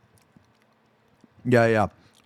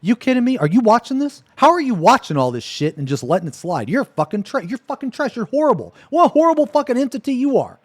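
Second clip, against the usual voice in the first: mock rant at God; 5 semitones higher than usual. Streamer imagining scolding God, outraged. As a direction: chew out God in disbelief. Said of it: "I'm gonna be like".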